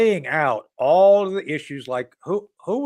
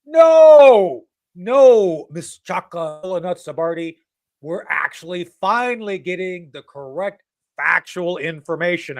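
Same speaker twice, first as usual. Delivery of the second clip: much louder and higher, a sharp double no; indignant outburst; 3 semitones higher, 8 dB louder, slower than usual. Real, not acted. Host talking back to the NPR host, loud and indignant. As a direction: shout back at the radio.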